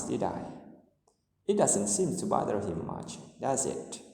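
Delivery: statement-like tags, voice falling at the end; falling tag questions. Shown as a demonstration. Teacher models tags needing no answer, falling tone. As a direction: let the closing "doesn't he", "isn't she", "did I", "does it" drop. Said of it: "we use a vowel tone at the end".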